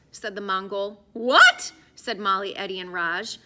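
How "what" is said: louder, higher shocked question; shocked outcry. A narrator's reading. Molly, Eddie and Raj shocked at being locked in. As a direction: blurt it out in disbelief. Three friends shocked together.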